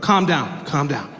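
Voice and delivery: slow, settling command; calming officer. Retold or imitated. Officer settles panicking driver, slow and calming. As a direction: bring the panic down slowly, as the cop.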